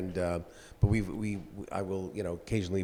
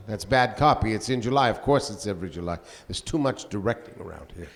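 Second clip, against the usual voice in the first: Orson Welles impression. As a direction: dismiss the copy as Welles. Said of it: "my Orson Welles in mind".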